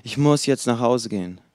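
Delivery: whiny, put-upon protest; mock whining. The employee moans to his boss that he's exhausted, in a mock whine. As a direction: complain that you're worn out and must go home. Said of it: "dann nörgelt er herum und sagt".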